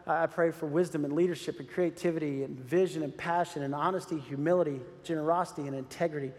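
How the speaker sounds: a hint of a morning prayer at his knees; quoted prayer. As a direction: pray it humbly. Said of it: "I say".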